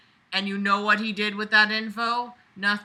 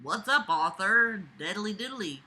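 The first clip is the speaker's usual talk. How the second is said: Ned Flanders voice; 3 dB quieter than usual. Acted. Reader voicing the dad like a chirpy cartoon neighbour. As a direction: play the dad as a sing-song goody-goody. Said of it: "in a normal Ned Flanders-like tone".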